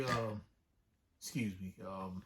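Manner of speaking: 1 meek. Retold or imitated.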